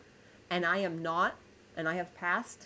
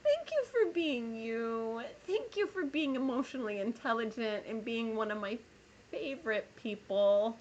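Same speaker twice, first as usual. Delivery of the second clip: tearful thanks; 2 semitones higher than usual. Real, not acted. Tearful thanks to viewer Greg.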